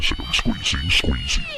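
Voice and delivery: very high helium squeak; high squeaky voice. Pretend. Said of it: "My voice is starting to go up".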